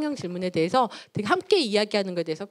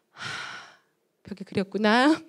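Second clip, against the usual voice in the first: put-on calm like Oh Eun-young; slower than usual. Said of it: "오은영처럼 얘기할 수".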